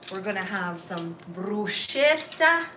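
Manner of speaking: dramatic mock Italian, loud; playful hammed-up Italian accent. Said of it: "I love it when she speaks Italian".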